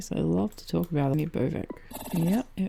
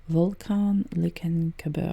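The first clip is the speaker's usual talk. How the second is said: slightly German-accented place name, drawn out. Real, not acted. Reading a volcano's name off the screen, German accent. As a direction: say it slowly with an accidental German accent. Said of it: "said that with a German accent".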